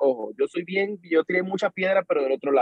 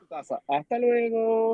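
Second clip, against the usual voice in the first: slow, higher drawn-out goodbye; mock farewell; 4 semitones higher, slower than usual. Worker walking out on the boss, drawn-out mock goodbye. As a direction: draw out a dismissive send-off. Storyteller acts out walking off job.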